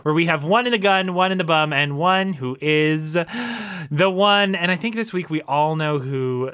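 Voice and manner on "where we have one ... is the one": bright host catchphrase; show host. Acted. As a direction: sell the catchphrase. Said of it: "welcome to this week's".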